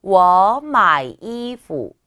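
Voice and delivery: 워 마이 이푸 very slow and loud, each tone drawn out; model reading. Shown as a demonstration. Teacher reads the sentence for learners, slow exaggerated tones. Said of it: "읽어보면".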